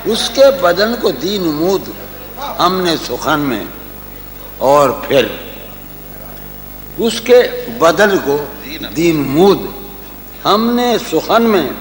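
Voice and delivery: measured poetic recital; tender romantic poetry. Acted. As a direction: linger on each phrase. Recites a couplet.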